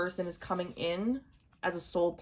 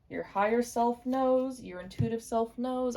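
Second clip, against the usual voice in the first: higher, slow, drawn-out oracle voice; mystic intonation; 5 semitones higher, slower than usual. Shown as a demonstration. Tarot reader to viewers, slow higher mystical intoning. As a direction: intone it like a message from beyond. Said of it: "I don't know why I'm gonna say it like that".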